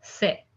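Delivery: "se" said the French way, say not see; "se" with a short French é sound; French letter C. Shown as a demonstration. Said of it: "the pronunciation of alphabet C in French".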